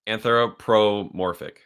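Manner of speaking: slow, careful "Anthropomorphic"; helping a friend say "Anthropomorphic", slowly; correcting pronunciation. Shown as a demonstration. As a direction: spell out "Anthropomorphic" slowly for him.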